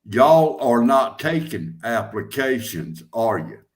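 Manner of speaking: leading negative question. Shown as a demonstration. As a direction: ask as if you expect a no. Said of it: "Call 'em up and ask them".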